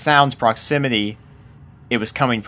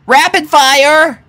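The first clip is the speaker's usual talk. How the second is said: high, loud, slow holler; 10 dB louder, slower than usual. A narrator's reading. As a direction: holler it across the stables. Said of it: "she hollered".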